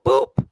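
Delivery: loud mimicked scanner boop. Clerk mimicking the barcode scanner for listeners, loud boop. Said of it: "When I go".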